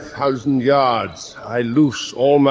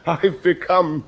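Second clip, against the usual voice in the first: laughing boast; 5 semitones higher, much slower than usual. Acted. Commander gloating over native worship.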